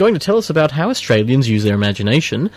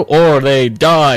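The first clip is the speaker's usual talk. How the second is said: slow, louder, ominous delivery; dramatic vampire threat; 2 semitones higher, 5 dB louder, much slower than usual. Shown as a demonstration. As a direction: drag it out like a horror movie. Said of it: "when I go".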